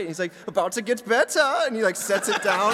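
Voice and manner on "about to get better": higher mock German accent; eager German room-service waiter impression; German Willy Wonka. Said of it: "like, a German Willy Wonka".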